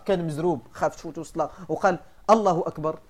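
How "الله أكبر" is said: الله أكبر said hurriedly, the madd of الله shortened; shortened madd takbir. Shown as a demonstration. Teacher imitating a hurried worshipper, madd shortened. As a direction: say الله أكبر fast with the vowel cut short. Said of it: "وقصر المد الطبيعي".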